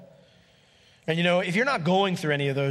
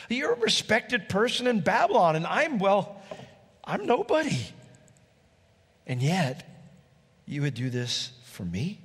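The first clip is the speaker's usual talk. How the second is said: much higher, wondering Ruth; Ruth amazed; 5 semitones higher than usual. Acted. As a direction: plead in disbelief. Ruth voiced by preacher.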